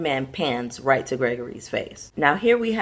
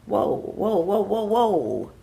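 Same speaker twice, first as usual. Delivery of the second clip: mock alarm; 4 semitones higher, slower than usual. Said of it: "I'm like".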